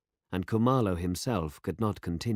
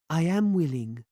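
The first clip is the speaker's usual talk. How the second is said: eager; 10 semitones higher, 5 dB louder than usual. A narrator's reading. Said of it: "she looked up eagerly".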